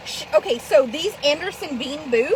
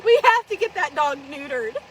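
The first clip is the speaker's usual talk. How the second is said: laugh-crying plea; 3 semitones lower than usual. Retold or imitated. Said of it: "And I'm like".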